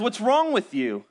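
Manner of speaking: puzzled, caring questions; mock-concerned wife voice; girlfriend's worried question. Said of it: "she looks at me and she says".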